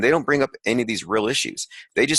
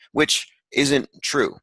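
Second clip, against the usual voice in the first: sarcastic; 5 semitones higher, much slower than usual. Real, not acted. Mocking the quoted claim.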